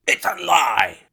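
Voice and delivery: loud, drawn-out accusation; angry yell. A narrator's reading. Lodger accuses the doctor, yelling. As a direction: yell it slowly and forcefully. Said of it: "he yelled".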